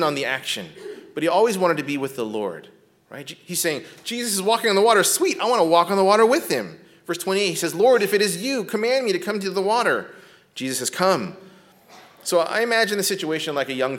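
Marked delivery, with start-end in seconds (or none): 4.0-6.8 eager excitement. Retold or imitated. Eager Peter voiced. 7.7-10.1 eager request. Retold or imitated. Eager Peter quoted.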